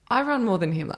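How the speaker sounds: high-pitched petulant complaint; retold grievance, pitched high; mock indignation. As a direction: imitate a put-out protest, voice lifted. Retold complaint about boyfriend.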